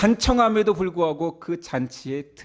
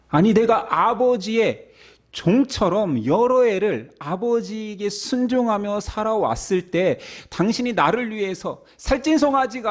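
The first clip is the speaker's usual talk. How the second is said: indignant son; 4 semitones higher than usual. Acted. Elder son protesting to father.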